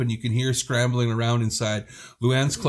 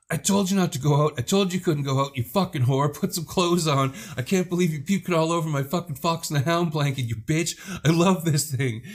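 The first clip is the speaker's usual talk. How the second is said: mock furious scolding; 5 semitones higher than usual. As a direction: play the cousin's outraged tirade half-seriously. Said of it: "And Luann's like".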